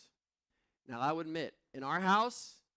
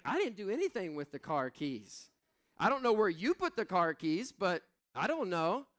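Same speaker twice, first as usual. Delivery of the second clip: defensive; 5 semitones higher, 5 dB louder than usual. Retold or imitated. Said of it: "I was like".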